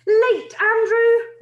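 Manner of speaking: high, loud, fierce bark of a name; fierce call. Acted. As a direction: snap it at the latecomer. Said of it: "called out fiercely".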